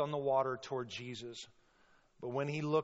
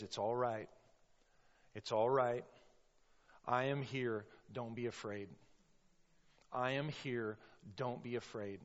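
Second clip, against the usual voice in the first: calm reassurance. Acted. Preacher as Jesus calming terrified disciples in the storm, calm reassurance. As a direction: settle them gently, pausing between phrases. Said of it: "Jesus is speaking".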